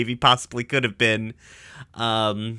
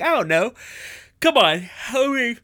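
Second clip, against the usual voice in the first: put-on high-pitched, pleading kid-character voice; Steven; 12 semitones higher than usual. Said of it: "And Steven's like".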